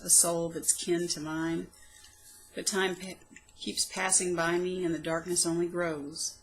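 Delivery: measured, heartfelt poem recital; poem reading. Acted. Poet reading her old poem aloud, heartfelt recital. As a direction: read it like a private diary poem.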